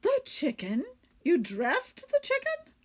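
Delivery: high, loud stunned questions; shocked disbelief. Acted. Lady finding lace on the steak, high loud shock. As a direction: gasp each word in disbelief.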